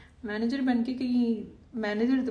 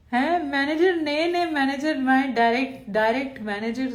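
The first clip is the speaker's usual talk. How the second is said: mock surprise; 5 semitones higher, 5 dB louder than usual. Real, not acted. Mock surprise at manager claim.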